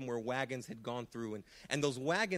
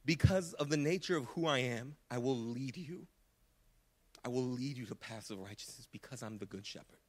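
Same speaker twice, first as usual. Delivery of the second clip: God's voice, gentle; 2 semitones lower than usual. Acted. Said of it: "Another interpretation that I love is simply like saying".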